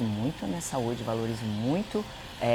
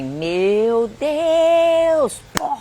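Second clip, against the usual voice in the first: loud, high, drawn-out reenacted scream; retold scream; 13 semitones higher, 10 dB louder, much slower than usual. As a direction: act out a long panicked cry. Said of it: "eu só gritei assim". (grito encenado, agudo e esticado)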